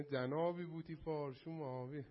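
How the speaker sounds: lightly mimicked Isfahani accent. Teacher retelling the Pharaoh's line in Isfahani accent. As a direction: quote the Pharaoh in a mild Isfahani lilt. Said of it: "با لهجه اصفهانی".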